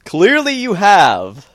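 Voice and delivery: mocking echo. Real, not acted. Echoes the retort, clearly much higher.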